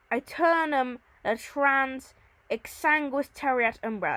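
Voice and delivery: slow, deliberate verse reading; Latin recitation. Acted. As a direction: give each Latin word room. Reads Latin verse aloud.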